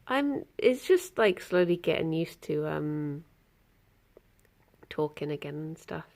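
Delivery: talking with a stiff, barely opening jaw; sore mouth. Real, not acted. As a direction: speak through a sore mouth after surgery. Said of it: "I can't open my mouth very far".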